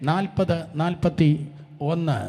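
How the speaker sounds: dictated slowly so all can find the verse; slow and clear. Shown as a demonstration. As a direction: spell out നാൽപത്, നാൽപത്തിയൊന്ന് slowly for the crowd. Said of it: "ശബ്ദം ഉയർത്തി വായിച്ചാട്ടെ".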